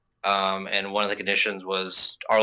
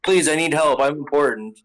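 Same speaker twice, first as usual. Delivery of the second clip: higher, louder whiny entitled plea; mock pleading noble; 6 semitones higher, 4 dB louder than usual. Mocking the noble's entitled plea, whiny. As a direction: beg like someone who thinks he matters. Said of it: "shooting randomly".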